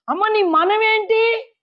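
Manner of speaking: high, slow, drawn-out question; slow ceremonial royal question; king addressing Esther. Acted. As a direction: call it out grandly to the petitioner.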